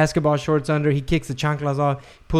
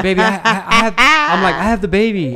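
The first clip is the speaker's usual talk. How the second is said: flustered excuse; 6 semitones higher, 6 dB louder than usual. Retold or imitated.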